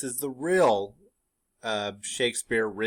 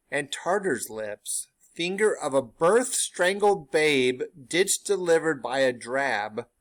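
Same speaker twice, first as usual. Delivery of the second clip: slow, louder, wild witch recital; crazed witch; 3 semitones higher, 4 dB louder, slower than usual. Acted. Teacher voices the third witch going crazy, loud and slow. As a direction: rant the ingredients like a mad witch. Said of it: "the third witch goes crazy".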